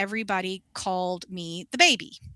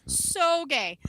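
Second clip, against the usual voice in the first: drawn out, higher, campy; camp emphasis; 7 semitones higher, much slower than usual. Retold or imitated. Confirming to her friend the client was gay: slow campy emphasis. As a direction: stretch it like a knowing camp drawl.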